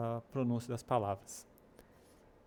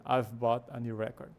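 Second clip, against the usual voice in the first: "record" as REC-ord, stress up front; noun stress. Shown as a demonstration. Teacher corrects the example sentence, "record" stressed at the start. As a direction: stress the first syllable of "record". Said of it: "a ideia é falar record".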